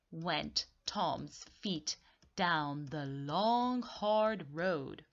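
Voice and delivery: dragged out, very slow storybook line; slow story reading. Acted. Teacher reading the long hard road very slowly.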